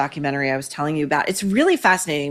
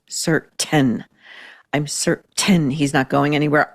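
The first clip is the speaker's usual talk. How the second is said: prim precise elocution; 3 semitones lower than usual. Retold or imitated. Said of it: "you can hear it in her elocution because she goes".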